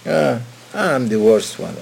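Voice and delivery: mock humble boast for an audience; hammed-up humility to show off; showy false humility. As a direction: toss it off to look humble. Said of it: "say it in front of people to show them off".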